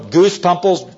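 "pimples" slipped to "pumples"; slip of the tongue. Real, not acted. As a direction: say "pimples" with an UH in the first syllable. Slips on word, then corrects.

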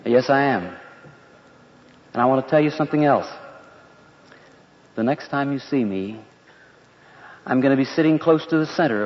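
measured, even answer with long pauses; even reply. Acted. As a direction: say it evenly, letting each phrase stand. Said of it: "Jesus said to him evenly".

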